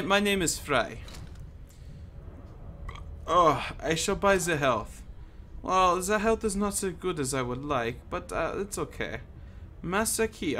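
playful, badly faked German accent; lightly hammed-up mock German accent. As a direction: put on a hammy German accent. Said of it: "doing a, a bad German accent".

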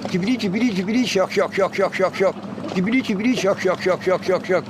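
trilled opening into evenly struck şak notes; bird song demo. Shown as a demonstration. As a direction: imitate a finch's rhythmic run. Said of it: "Bunlar lezzetli kuşlar". (saka şakşak taklidi)

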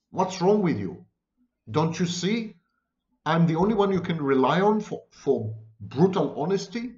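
mock-indignant, pushy tough-love lecture; a touch of indignation from the toxic helper defending harsh criticism. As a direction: play the self-righteous helper, mildly wounded. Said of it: "they're gonna indignantly throw it back at you".

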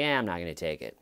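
mock backing out. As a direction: drop the pitch and casually back out, imitating a suspect. Mimics suspect backing out later.

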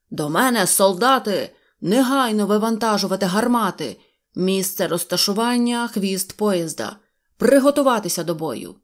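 loud military commands; rally the troops like a general; barked orders. Acted. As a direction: general calling soldiers to battle stations. General orders soldiers to arms.

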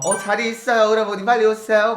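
put-on eager hostess on the phone. Hostess voice to a customer.

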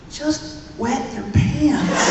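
put-on slow, giggling delivery of the kid's line; laughing through the words. The speaker retelling the boy's advice through laughter. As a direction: crack up as you say it.

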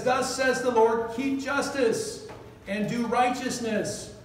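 measured reading of holy words; scripture reading. Acted. Reads scripture slowly.

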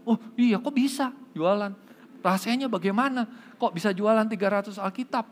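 high-pitched acted astonishment. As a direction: play an amazed salesman demanding the secret. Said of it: "lebih kaget lagi". (pura-pura kaget, nada tinggi)

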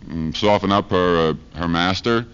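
ordinary talk

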